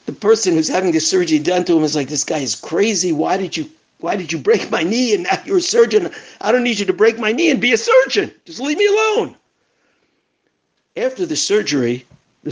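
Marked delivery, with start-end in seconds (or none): 2.1-9.3 exasperated protest. Retold or imitated. Patient protests to the surgeon.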